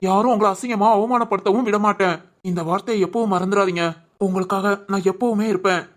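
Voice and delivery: tender vow to his wife; reassuring. Acted. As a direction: soothe her fear steadily. Husband reassures frightened wife.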